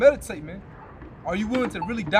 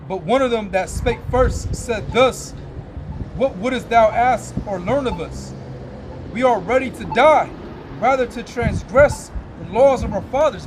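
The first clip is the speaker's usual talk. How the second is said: put-on slow, louder, solemn reading of old scripture; 4 dB louder, slower than usual. Preacher reading Maccabees to his listeners, slow and solemn. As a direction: intone the verses like a preacher at the pulpit.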